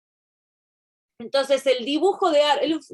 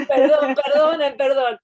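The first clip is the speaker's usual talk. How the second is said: louder, slower perdón through laughter; teacher laughing apology to the class; 3 semitones higher, 7 dB louder, slower than usual. Real, not acted. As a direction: laugh while saying sorry.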